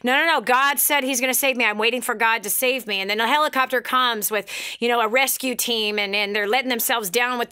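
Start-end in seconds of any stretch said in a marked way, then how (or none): 0.0-3.0 mock stubborn shout. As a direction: wave off the rescuers, insisting. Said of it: "And he goes".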